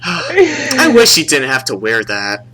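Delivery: slow, laughing mock lament; mock pity. Imagining saying it to a stranger, mock pitying. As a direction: draw it out in hammed-up pity.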